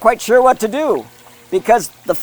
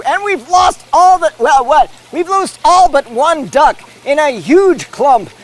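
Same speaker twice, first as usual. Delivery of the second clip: higher and louder, a sudden burst of excitement; excited outburst; 7 semitones higher, 5 dB louder than usual. Real, not acted. Commentator reacting to the ducks washing off in a clump, excited outburst. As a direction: exclaim as the ducks all wash off.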